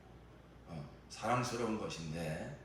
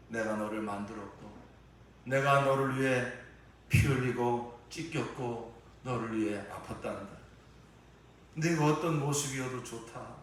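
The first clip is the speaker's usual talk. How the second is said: voice of the Lord; 2 semitones higher, 4 dB louder than usual. Acted. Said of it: "주님은 이렇게 대답하실 것입니다".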